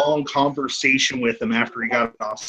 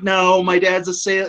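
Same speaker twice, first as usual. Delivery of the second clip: higher-pitched mock chatty woman; rambling fan; 6 semitones higher than usual. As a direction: imitate her carrying on regardless. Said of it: "And she's like".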